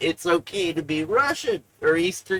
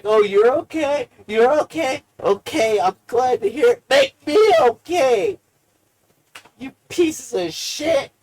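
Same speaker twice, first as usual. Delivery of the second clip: guilt trip; 4 semitones higher, 5 dB louder than usual. Pretend. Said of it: "guilt trip them into helping me".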